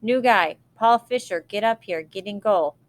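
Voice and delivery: loud, high call across the field; coach yelling. Retold or imitated. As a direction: call him up from far down the pitch. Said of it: "The coach yelled down to my end".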